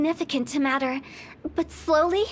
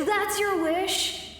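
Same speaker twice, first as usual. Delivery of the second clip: laughing; 5 semitones higher, much slower than usual. Acted. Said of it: "If that's so funny".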